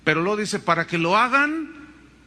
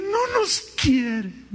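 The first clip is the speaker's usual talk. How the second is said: high, slow whiny "No nos quieren"; mock complaint; 9 semitones higher, slower than usual. Pastor mocking members who say they aren't loved. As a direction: whine it like a sulking child. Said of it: "Siempre le van a decir".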